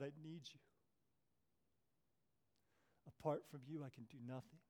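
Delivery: soft, pleading prayer to God; hushed prayer. Acted. Preacher voicing a lonely hushed prayer. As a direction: pray quietly as if alone with God.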